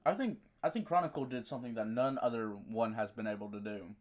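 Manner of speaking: talking while chewing gum; words round a wad of gum. Real, not acted. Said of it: "I just put gum in my mouth".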